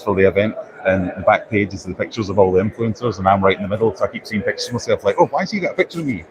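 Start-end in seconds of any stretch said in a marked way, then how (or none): 5.2-6.2 high, quick mock puzzlement; retold puzzlement. Vlogger recalling seeing own picture on leaflets, retold puzzlement. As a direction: act out a quick, high-pitched double take. Retells own surprised reaction.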